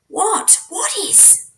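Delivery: high anxious question; sharp frightened what; alarmed. Acted.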